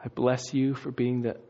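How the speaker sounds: soft, low table grace; blessing prayer. Acted. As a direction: pray quietly and gently over the food. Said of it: "blesses it".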